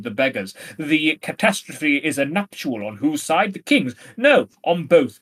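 lightly pompous question-and-answer recital; mildly self-important letter-writer; pretentious Armado. Acted. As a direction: spell it out with a touch of arrogance. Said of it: "most pretentious and arrogant person imaginable".

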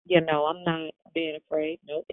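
talking around a mouthguard; wearing a mouthguard. Real, not acted. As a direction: mouthguard in, words a little thick. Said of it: "a mouth guard in my mouth, so I sound a little funny".

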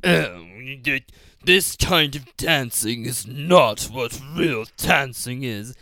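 lightly voiced snooty director, slow; mocking the director. Mocking the ridiculous director's view of real dancing, slow pompous voice. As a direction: drawl it out like a pompous dance director. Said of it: "he's such a cartoon character".

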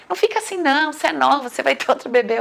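sing-song pity, parodied; imitating the nurse. Nurse's words acted out.

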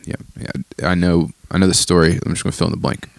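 soft, offhand brush-off; dismissive. Retold or imitated. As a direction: wave it off quietly. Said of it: "it's pretty easy to be like".

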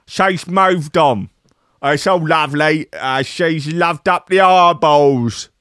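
a light Cockney Danny Dyer voice; Danny Dyer impression. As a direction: read his quote as a chirpy East End geezer. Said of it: "Danny Dyer ... has spoken out".

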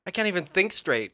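talking through a burning mouth; mouth burning from spicy food. Real, not acted. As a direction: speak while the mouth is on fire. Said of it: "my mouth is on fire".

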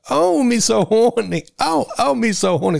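very high, drawn-out mock voice; film sample imitation. Podcaster mimicking the sampled movie line, high caricature voice. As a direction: squeal it slowly in falsetto caricature.

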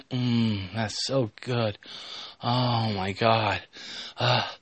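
hushed, acted murmur of satisfaction; soft contentment. Cat girl reacts with pleasure, soft acted murmur. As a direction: murmur it softly in character.

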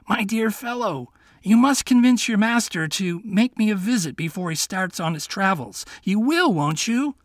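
king demanding who the master is. Acted. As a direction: play a bewildered old king. King urges the fox.

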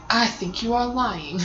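slow mock British accent. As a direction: do a light British TV host accent. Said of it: "in his little British accent".

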